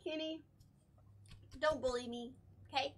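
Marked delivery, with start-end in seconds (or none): 1.6-2.9 mouth full. Real, not acted. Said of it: "It's hard to talk with your mouth full of".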